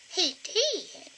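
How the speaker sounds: high little puppet granny voice; squeaky ventriloquist dummy. Pretend. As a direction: pipe up as the old lady puppet. Puppet Agnes chimes in.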